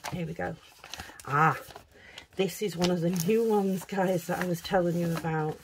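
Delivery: pleased, smiling delivery. Real, not acted. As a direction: let the smile come through. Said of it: "I bet you can hear the smile in my voice".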